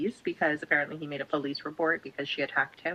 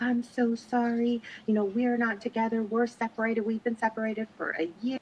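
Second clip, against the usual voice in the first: high pleading apology; 5 semitones higher than usual. Retold or imitated. Man's apologetic phone call.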